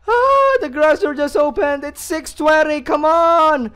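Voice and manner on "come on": usual speaking voice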